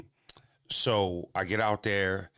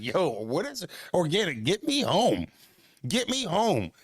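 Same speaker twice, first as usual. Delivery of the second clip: mock panic; 8 semitones higher than usual. Begging Organic to take him home, mock panicked plea. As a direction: beg a friend to get you out of there.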